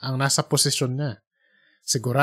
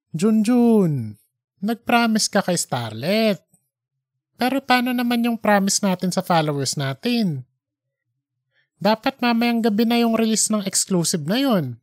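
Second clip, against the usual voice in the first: higher, quickening boss voice; pushy editor; 6 semitones higher than usual. Acted. Editor demanding the recording from Junjun, impatient. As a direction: rush him into handing it over.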